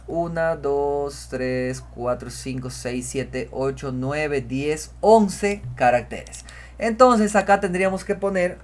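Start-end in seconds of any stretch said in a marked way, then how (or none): 0.1-6.4 counting out slowly, one by one; slow teacher's count. Shown as a demonstration. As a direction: count slowly so students follow. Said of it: "Vamos a contar".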